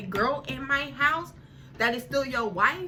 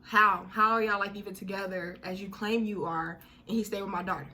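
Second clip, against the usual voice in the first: mother confronting. Retold or imitated. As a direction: demand it of him, outraged.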